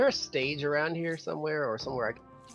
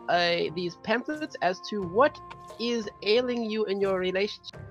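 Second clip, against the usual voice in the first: squeaky pony making a polite announcement; little pony voice; 7 semitones higher than usual. Acted. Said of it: "in my loudest little pony voice".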